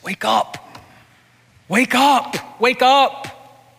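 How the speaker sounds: building from whisper to a high cry; rising plea. Retold or imitated. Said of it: "tears rolling down the eyes of Jesus".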